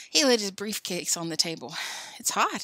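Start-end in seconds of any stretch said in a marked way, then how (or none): 2.2-2.6 cheerfully. Acted. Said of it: "he said cheerfully".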